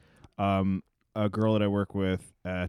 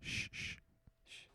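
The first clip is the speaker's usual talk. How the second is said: hushed unvoiced whisper; 20 dB quieter than usual. Real, not acted. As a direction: whisper to catch a faint noise. Hushing to hear a noise.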